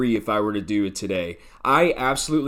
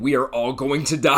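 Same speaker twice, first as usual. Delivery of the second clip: laughing. Real, not acted. Movie reviewer delivering a doom-laden plot line, laughing as he ends. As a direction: laugh breaking into the last word. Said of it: "I started laughing at that last line".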